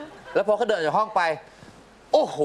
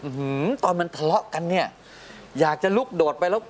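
exasperated; 7 semitones higher than usual. Retold or imitated. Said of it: "เมื่อกี้แบบ".

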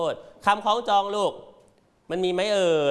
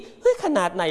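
confused reader. Retold or imitated. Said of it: "คนอ่านก็คิด".

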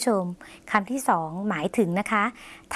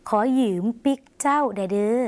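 slowed, voiced repeat; slow demo. Shown as a demonstration. Teacher repeats the Lao phrase for viewers, slow and voiced. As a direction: say ขอยืมปิกเจ้าเด้อเด้อ slowly in a full voice. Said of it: "หมายถึง".

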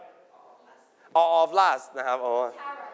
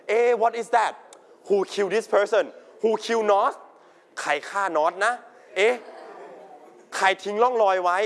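puzzled questions, lightly acted, slightly raised pitch; curious wondering; 3 semitones higher than usual. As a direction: play a mystery viewer wondering who did it. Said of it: "a lot of wonder and curiosity". (สงสัยใคร่รู้แบบแสดงเบาๆ)

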